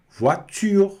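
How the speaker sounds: "voiture" with the u said through tightly pursed lips; French "voiture", its u like an ee with puckered lips. Shown as a demonstration. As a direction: round the lips hard on the end of "voiture". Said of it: "Olha o biquinho".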